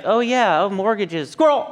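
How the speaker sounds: mock attention snatched away mid-sentence; distracted dog. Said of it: "that dog in that Pixar movie Up".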